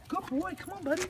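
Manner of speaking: high, light praise and call. Real, not acted. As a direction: cheer the dog on lightly. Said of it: "I keep my voice light like this".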